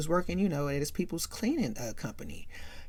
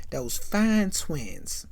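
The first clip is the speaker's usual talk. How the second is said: admiring drawl; much slower than usual. Retold or imitated. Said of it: "mm-mm-mm-mm-mm".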